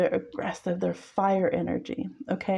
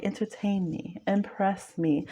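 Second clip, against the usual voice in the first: sardonic challenge; slower than usual. Retold or imitated. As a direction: lazily dare them to impress you. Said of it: "a very sardonic kind of energy".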